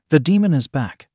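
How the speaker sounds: through gritted teeth. Acted. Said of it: "he said through gritted teeth".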